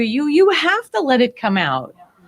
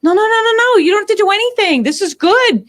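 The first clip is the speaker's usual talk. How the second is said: higher, louder firm reassurance; friend's calm insistence; 9 semitones higher, 4 dB louder than usual. Retold or imitated. Housemate calmly telling the crying teller it's fine, higher voice. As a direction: gently insist it's meant to happen. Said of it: "And she's like".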